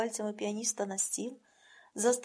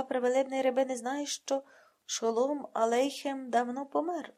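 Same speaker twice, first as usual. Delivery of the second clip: exclaiming. Acted. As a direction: drive it home with mock astonishment. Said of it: "вигукує Загурський".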